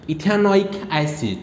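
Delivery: slow, drawn-out इथेनोइक एसिड; slow spelled-out name. Shown as a demonstration. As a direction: say इथेनोइक एसिड slowly, syllable by syllable. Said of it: "pen उठाओ और इसको ख़त्म करो". (धीरे-धीरे इथेनोइक एसिड)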